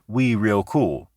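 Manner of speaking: slow, hang on "we" before moving on; syncopated jazz rhythm, lean on "we" then pause; "we" stressed and held, "real cool" falling; pause after we. Shown as a demonstration. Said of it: "Brooks writes this in a light dialect".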